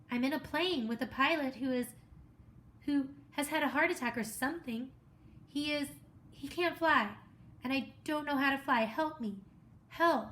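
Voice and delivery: pleading for rescue; a stranded boy begging the radio voice for help; desperate plea. Acted.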